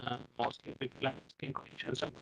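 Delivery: faint, garbled connection; unclear audio. Real, not acted. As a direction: voice breaking up on the line. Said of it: "your voice is not clear".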